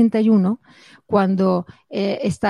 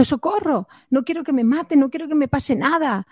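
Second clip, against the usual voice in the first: higher-pitched imitated cry for help; mock panicked cry; 6 semitones higher than usual. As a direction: plead like scared Simón, without real volume. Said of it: "ese era Simón gritando". (grito de socorro imitado, agudo)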